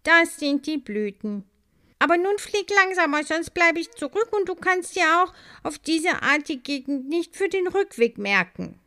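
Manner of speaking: high, loud, fast, winded; breathless pleading. A narrator's reading. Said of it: "die etwas außer Atem war".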